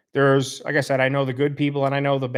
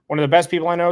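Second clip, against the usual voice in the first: higher and louder, repeated with real enthusiasm; bright emphatic repeat of the compliment; emphatic praise; 5 semitones higher, 5 dB louder, much faster than usual. Real, not acted. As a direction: say it again, lifting it up with eager praise.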